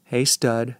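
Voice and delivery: thin, raspy, hushed voice; raspy whisper. Acted. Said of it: "A thin, raspy voice whispers".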